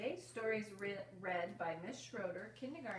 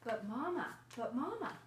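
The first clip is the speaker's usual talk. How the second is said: put-on loud, high call of a child; pleading child; 4 semitones higher, 6 dB louder than usual. A narrator's reading. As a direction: call out to mama like an eager kid. Child pleads with mother in story.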